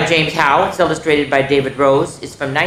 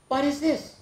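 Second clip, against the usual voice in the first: hushed surprise; 11 semitones higher, 6 dB quieter than usual. Acted. Finds flashlight, hushed.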